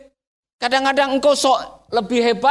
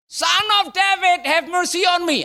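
crying out; 6 semitones higher than usual. Acted. Blind beggar calling to Jesus for mercy, crying out high. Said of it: "Ketika Bartimeus berseru".

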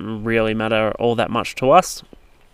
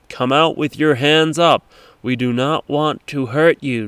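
mock police loudspeaker; 3 semitones higher, slower than usual. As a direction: announce it slowly like a megaphone. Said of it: "repeating itself over the massive big loudspeaker".

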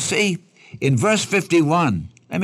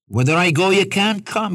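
raised, emphatic scripture quote; 6 semitones higher than usual. Retold or imitated. Preacher quoting Jesus's warning to listeners, emphatic. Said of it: "He's emphatic".

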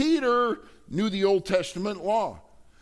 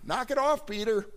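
1 exasperated rebuke; 7 semitones higher than usual. Acted. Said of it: "And Paul says".

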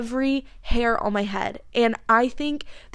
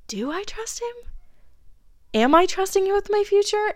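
much higher, unsure inner voice; anxious self-question; 10 semitones higher than usual. Retold or imitated. Questioning herself about trusting God, high and unsure. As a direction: ask yourself, high and uncertain.

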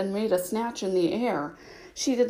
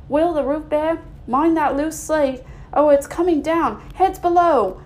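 loud, higher calls of busy workmen; workmen shouting; 5 semitones higher, 4 dB louder than usual. Acted. Workmen calling to each other over the ladders, loud. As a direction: bark orders across the roof.

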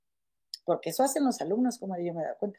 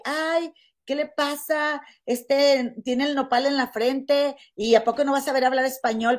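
mock indignation; 3 semitones higher than usual. Quoting show commenters scolding him, in mild mock indignation. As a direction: lightly imitate a scandalized commenter. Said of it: "lo que sí veía yo mucho en los comentarios".

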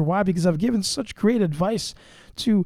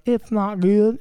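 imitated Southern accent; slower than usual. Husband quoting his Southern wife back to her, imitated Southern accent. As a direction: mimic the wife's Southern accent. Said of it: "You just said, like".

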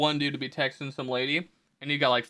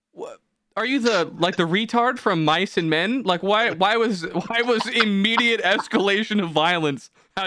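higher and slow, incredulous; mock exasperation; 4 semitones higher than usual. To the stranger who threatened Timmy, higher slow incredulous scolding. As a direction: stretch out the disbelief, higher. Exasperated reply to the white knight.

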